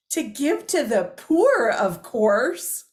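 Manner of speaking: loud, slow, as if to a moron; stating the obvious. Retold or imitated. Husband explaining the theft to his clueless wife, condescending. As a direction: imitate someone explaining the painfully obvious. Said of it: "like I was a complete moron".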